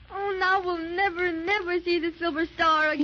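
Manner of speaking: tearful. Acted. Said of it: "don't carry on like that".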